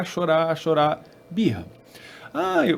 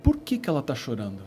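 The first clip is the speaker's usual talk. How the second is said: softer, lower and calm, a quiet check-in; gentle calming voice; 5 semitones lower, 10 dB quieter than usual. Retold or imitated. Father voicing God gently calming him, soft and low. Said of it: "eu senti Deus falando assim".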